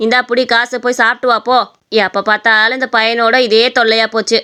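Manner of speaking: lightly voiced weary scolding; exasperated mother. Busy mother handing her son money, exasperated. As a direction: grumble at a pestering son.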